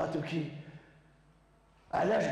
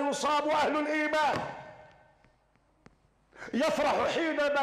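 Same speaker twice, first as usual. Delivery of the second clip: full-force preaching; 13 semitones higher, slower than usual. Acted. Preacher rouses believers against tyrants, fiery shouting. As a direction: rise to a fiery preacher's cry.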